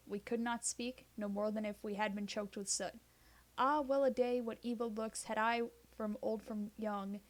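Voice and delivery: measured, rhythmic reading of ballad verse; poem recitation. Acted. Reading the Ancient Mariner aloud for listeners, rhythmic poem voice. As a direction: let each stanza roll with its beat.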